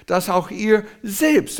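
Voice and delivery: slow, weighty "selbst"; stress on selbst. Shown as a demonstration. Preacher rereading Paul's words with stress on "selbst". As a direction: draw out "ihr selbst" with weight. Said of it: "Er macht es mit Betonung".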